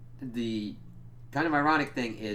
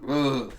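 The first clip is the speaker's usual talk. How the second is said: loud, raised mummy moan; imitated monster groan; 4 semitones higher, 8 dB louder than usual.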